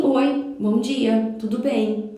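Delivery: slow, simply courteous hello; polite greeting. Shown as a demonstration. Polite neighbour greeting someone in the lift, slow and courteous. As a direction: greet a stranger politely and leave it there. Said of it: "Eu respondo com educação".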